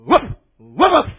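loud mock woofs; barking. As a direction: bark it out loud at them. Imitates someone barking at you.

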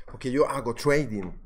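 mocking a show-off saying "trading" with English "t͡ʃwejdin"; "trading" said as a fake English "chweidin", mock snobby; posh anglicized trading. Streamer mocking show-off traders, fake English accent. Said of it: "esa gente que pone esos acentos".

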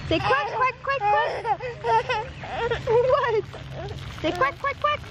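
put-on high singsong coaxing to a toddler; baby talk to a toddler. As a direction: coax a little child, high and bright. Mom coaxing toddler to quack.

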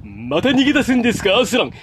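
holding breath. Shown as a demonstration. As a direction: speak while holding the breath in your nose. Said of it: "声を一オクターブ下げて、鼻の息を止めながら". (鼻の息を止めて話す)

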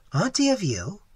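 imitated Seminole man. Waitress imitates Tigertail asking about her aunt, questioning. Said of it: "even imitating his voice and gestures".

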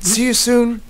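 high squeaky mouse voice. Acted. Millie the mouse saying goodbye to Malcolm, high squeak. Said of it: "squeaked Millie".

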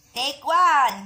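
loud call. Shown as a demonstration. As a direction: call out Take one like a director. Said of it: "Oh, take one". (malakas na sigaw ng Take one)

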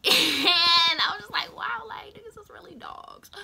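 high, laughing, then whispered. Acted. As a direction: squeak it out through laughter. Laughing high pitch line.

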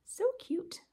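high breathy whisper of delight; whispered aside. Real, not acted. Vlogger admiring her small fairy stitch, delighted whisper. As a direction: whisper it to yourself, charmed.

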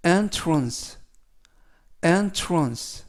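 entrance stressed on EN, ENT-runce; repeat-after-me entrance; model pronunciation. Shown as a demonstration. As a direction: clear drill read of entrance. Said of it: "entrance라고 발음하시면 되겠습니다".

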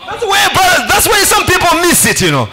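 forceful, punchy sermon delivery; preaching. Real, not acted. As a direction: preach it out to the congregation in bursts.

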